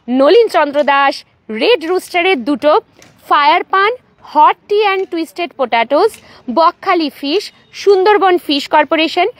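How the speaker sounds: measured roll call, name by name; unhurried list reading. Real, not acted. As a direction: read out each stall name separately, with short pauses. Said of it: "চলুন আস্তে আস্তে বলছি". (ধীরে ধীরে একটানা নাম পড়ে যাওয়া)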